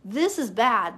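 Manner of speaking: hammed-up shocked wife; alarmed exclamation. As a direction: play Abigail startled that disaster is coming. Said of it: "Abigail's like".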